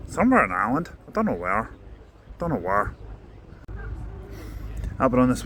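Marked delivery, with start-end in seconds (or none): 0.1-2.9 put-on Irish accent. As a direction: read the bus details in a mild Irish accent. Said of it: "I'm gonna do the, the accent".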